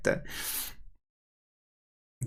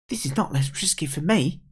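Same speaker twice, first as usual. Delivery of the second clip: put-on objecting young character; 6 semitones higher than usual. Kid objects.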